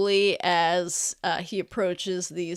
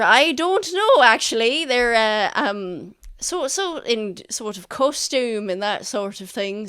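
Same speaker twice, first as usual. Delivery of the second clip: flustered merchant; 7 dB louder than usual. Acted.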